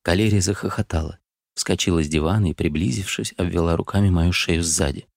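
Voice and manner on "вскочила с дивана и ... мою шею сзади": ordinary delivery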